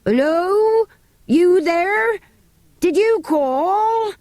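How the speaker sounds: high, loud calling out; shouted. Acted. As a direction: call up to a tower, slow. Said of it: "Andrew shouted".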